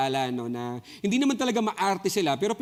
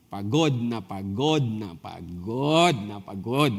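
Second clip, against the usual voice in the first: weary exhaustion; 7 semitones lower, much slower than usual. Acted. Exhausted repetition.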